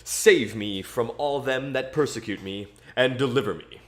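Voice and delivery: scripture reading. Acted. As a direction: read it like a psalm at church. Reads a psalm aloud.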